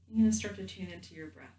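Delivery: gentle guided meditation voice with long pauses. Real, not acted. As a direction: guide them calmly into the body, leaving space between phrases.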